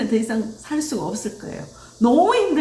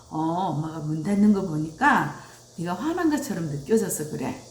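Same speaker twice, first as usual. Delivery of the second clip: lower, softened understanding parent voice; gently name the child's feeling; calm reassurance; 6 semitones lower than usual. Retold or imitated. Mother to child who slammed the door, calm reassurance.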